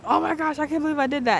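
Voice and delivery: high, loud embarrassed outburst; flustered squeal of disbelief, reenacted; retold mortified disbelief. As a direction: act out being mortified at your own boldness. Retold mortification after handing over number.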